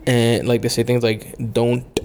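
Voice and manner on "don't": don't with a hard, crisp final T; imitating a crisp T; overpronounced T. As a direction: tap the T at the end of don't. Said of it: "they overpronounce the T".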